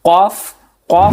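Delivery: قاف knocked from the tongue root; teacher showing قاف from the tongue root; deep qaaf. Shown as a demonstration. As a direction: hit قاف deep in the mouth. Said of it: "زبان کی جڑ".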